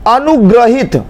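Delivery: अनुग्रहित with 'gra' in the middle; wrong pronunciation. Shown as a demonstration. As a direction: say अनुग्रहित as a-nu-gra-hit. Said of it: "ग्रह नहीं होता". (अनुग्रहित में गलत 'ग्र')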